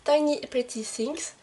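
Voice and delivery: slow, careful English accent on the title. Real, not acted. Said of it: "je m'excuse déjà pour mon accent anglais".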